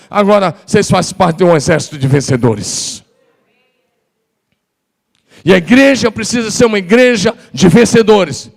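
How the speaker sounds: high, loud, driving sermon voice; preaching at full force. Acted. Pastor urges church to speak as winners, preaching loud. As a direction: preach it out to the whole hall.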